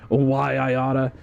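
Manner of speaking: slow wise-guy threat; old-movie tough guy. Pretend. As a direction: mutter a threat like an old gangster. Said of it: "and the other guy goes".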